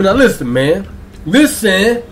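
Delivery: lightly imitated hype-man delivery; a hint of impression on an emphatic "listen"; celebrity DJ voice. Host telling viewers to listen, lightly imitating a celebrity. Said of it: "in my celebrity DJ voice".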